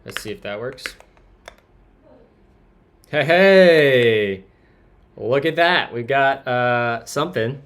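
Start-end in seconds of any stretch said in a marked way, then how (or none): 3.1-7.6 loud, high burst of triumph; excited. Real, not acted. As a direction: cheer at the screen, high. Code finally responds.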